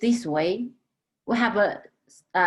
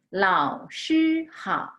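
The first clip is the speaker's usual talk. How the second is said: slow model reading; much slower than usual. Shown as a demonstration. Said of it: "Okay, follow me".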